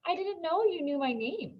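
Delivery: lightly voiced girl, a touch coy. A narrator's reading. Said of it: "tilting her head to one side".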